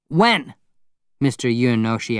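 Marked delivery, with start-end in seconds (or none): 0.1-0.5 sudden eager question, higher pitch; high, excited neighbour. A narrator's reading. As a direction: ask it with quick, keen interest. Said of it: "His voice was excited now".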